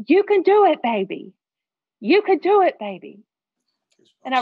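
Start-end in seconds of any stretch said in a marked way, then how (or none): 0.1-1.3 put-on high, loud yell of encouragement, dropping on "baby"; imitating dad's scream. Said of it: "he's screaming to the top of his lungs". 2.0-3.2 imitating dad's scream. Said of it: "he's screaming to the top of his lungs".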